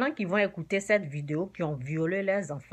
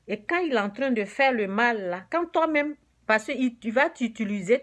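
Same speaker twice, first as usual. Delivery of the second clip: prêcher plus fort, avec ferveur; prêche enflammé; 4 dB louder than usual. Acted. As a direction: marteler l'avertissement aux fidèles. Prédication ardente, plus forte. (prédicateur qui met en garde contre Satan, voix plus forte)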